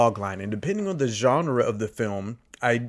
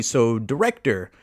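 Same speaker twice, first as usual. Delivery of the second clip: ordinary delivery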